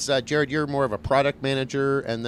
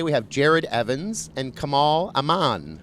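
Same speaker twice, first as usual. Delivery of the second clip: robot voice; 3 dB louder, slower than usual. Real, not acted. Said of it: "You sound like a robot today".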